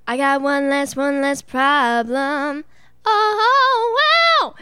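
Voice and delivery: breathy sung impression of a singer; breathy pop-singer voice. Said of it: "her voice is a little breathy".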